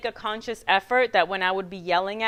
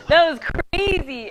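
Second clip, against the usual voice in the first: slow, drawn-out, high and loud through laughter; amazed, laughing; 7 semitones higher, 8 dB louder, slower than usual. Retold or imitated. Husband stunned by Christmas party, retold amazed and laughing.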